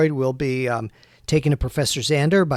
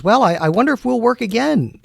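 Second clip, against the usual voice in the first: Spider voiced; 8 semitones higher than usual. Spider voiced in played story.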